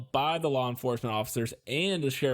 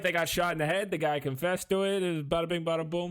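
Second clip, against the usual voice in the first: breezy and higher, shrugging it off; flippant; 5 semitones higher than usual. Pretend. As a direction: toss it off like it's nothing. Mock bland version of story.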